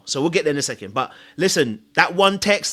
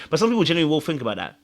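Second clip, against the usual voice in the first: usual speaking voice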